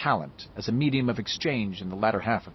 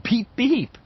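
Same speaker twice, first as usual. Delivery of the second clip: high, loud giggly beep; giggling; 12 semitones higher, 5 dB louder than usual. A narrator's reading. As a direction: tease him with a giggle. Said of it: "Bev said and giggled".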